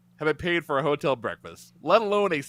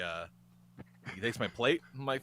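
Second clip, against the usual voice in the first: ordinary delivery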